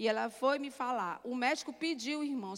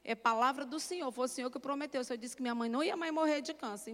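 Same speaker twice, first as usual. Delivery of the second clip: retold prayer.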